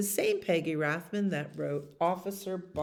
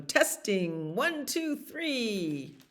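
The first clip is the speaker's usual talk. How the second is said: megaphone test; 4 semitones higher, much slower than usual. Acted. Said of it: "calling through the megaphone".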